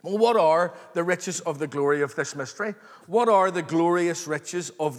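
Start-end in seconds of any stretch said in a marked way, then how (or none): none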